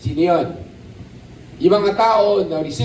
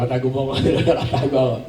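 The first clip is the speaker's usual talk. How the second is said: laughing mock plea; 6 semitones lower, much faster than usual. Dozing listener begs to hide.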